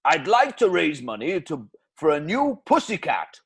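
loud, swooping Welsh crooner; Welsh accent. Acted. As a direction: croon it in a Welsh crooner style. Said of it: "Bloody Welsh accent again".

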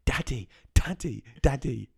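put-on small daughter nagging a dad who isn't listening, high child voice; imitating daughter calling. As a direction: pester like a little girl who wants attention. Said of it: "she'll go".

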